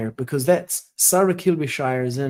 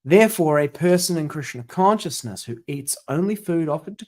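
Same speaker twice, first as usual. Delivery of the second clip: measured, formal read-aloud of a religious text; reading scripture aloud; 3 semitones higher than usual. Acted. Devotee reading a commentary to study partner, formal reading. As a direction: read it out steadily, phrase by phrase.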